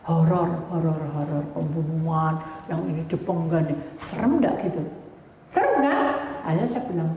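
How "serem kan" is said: rhetorical exclamation. Real, not acted. Asks congregation rhetorically.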